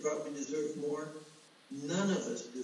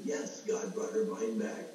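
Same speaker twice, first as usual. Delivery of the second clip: tearful whisper; 3 semitones lower than usual. Retold or imitated. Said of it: "Now I'm crying".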